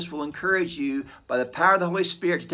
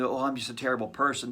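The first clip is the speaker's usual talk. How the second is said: quick, quieter self-deprecating sigh of a line; mock false humility; 3 semitones lower, 5 dB quieter, faster than usual. Imitating a falsely humble person, mildly self-pitying. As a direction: toss it off like fake modesty. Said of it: "it's a false humility".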